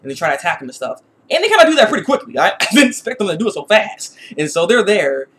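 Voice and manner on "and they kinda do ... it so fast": surprised. Real, not acted. Surprised at fast attack.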